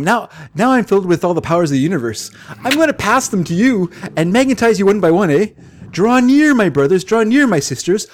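mystic master in a put-on Canadian accent. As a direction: preach cosmic power in a Canadian accent. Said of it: "Give him a thick Canadian accent".

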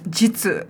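"Jitsu" said as "JIT-soo"; pronounced as spelled. Shown as a demonstration. Confirming the spelling to co-host, "Jitsu" as jit-soo. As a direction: say "Jitsu" with a short i. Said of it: "it's J I T S U".

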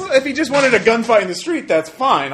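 laughing. Real, not acted. Laughing while complaining.

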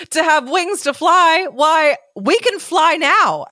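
high, slow boastful beetle; proud beetle. A narrator's reading. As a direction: puff up as the vain beetle. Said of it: "he spread his wings".

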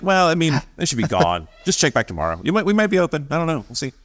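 breezy, offhand shrug of a voice; mock nonchalant. Website staff shrugging off the lava, mock nonchalant. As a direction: brush it off like it's a rainstorm. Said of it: "Very nonchalant".

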